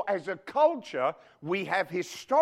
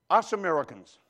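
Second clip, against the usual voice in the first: Us Americans, with his own foreign accent leaned on; 3 dB louder than usual. Shown as a demonstration. Pastor shows the congregation his own accent. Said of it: "don't you like it when I say that with that accent?".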